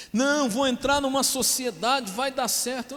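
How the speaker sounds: 3 lightly voice the naive believer; 1 mock believer. 4 pastor imitating a naive believer, lightly mocking.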